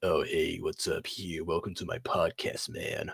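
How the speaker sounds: put-on low, gravelly podcaster-style voice. Joking about sounding hoarse while sick: put-on gravelly podcast voice. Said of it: "I'm not trying to put on a voice and be like".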